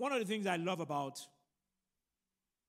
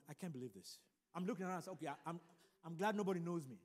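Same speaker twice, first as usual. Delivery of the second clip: low, hushed aside, acted out; embarrassed aside; 3 semitones lower, 7 dB quieter, faster than usual. Embarrassed son beside the screaming friend at the mall, hushed aside. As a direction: drop the voice as if hoping not to be noticed.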